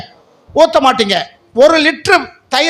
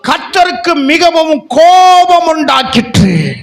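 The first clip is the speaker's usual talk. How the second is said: forceful proclamation; slower than usual. Acted. Reading verse with force.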